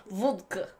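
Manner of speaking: "vodka" in a mock Russian accent; one-word stab at a Russian accent; Russian accent attempt. Shown as a demonstration. Podcaster showing her limited accent skills, mock Russian. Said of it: "Or Russian".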